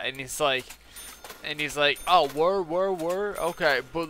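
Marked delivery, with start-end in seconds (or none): 2.1-4.1 higher, louder mock dude; eager put-on customer reacting; imitated customer. Customer impressed by what comes in the kit, high imitation. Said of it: "this dude is talking like this".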